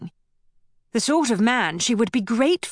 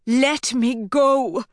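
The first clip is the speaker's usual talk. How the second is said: slow, a touch higher, strained; strangled plea; 3 semitones higher, slower than usual. Acted. Rowena begging Malcolm to release her, strangled and slow. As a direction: squeeze out a frightened plea. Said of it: "Her voice came out strangled and tremulous".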